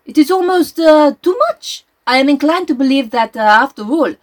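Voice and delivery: lightly voiced Belgian detective, reading aloud; a hint of Poirot's fussy French lilt.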